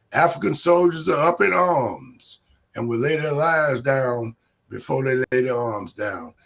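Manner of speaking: rising rally chant, call and response; ranting dictator speech. Real, not acted. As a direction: whip up the crowd.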